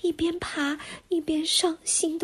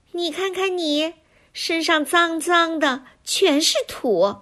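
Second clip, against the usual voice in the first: pinching the nose, a bit higher, nasal; pinched nose voice; 4 semitones higher, 3 dB louder than usual. Acted. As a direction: talks while holding nose. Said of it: "蝴蝶捏着鼻子对我说". (捏着鼻子说话)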